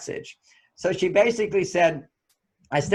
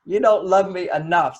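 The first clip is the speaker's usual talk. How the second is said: hurt wife. Retold or imitated. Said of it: "she would react as if".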